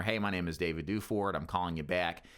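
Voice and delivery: a dull, bored monotone with no lift; flat and boring. Shown as a demonstration. Agent showing prospects a dull phone voice, flat and bored. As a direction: drone it like you don't care. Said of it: "You don't wanna sound flat and boring where".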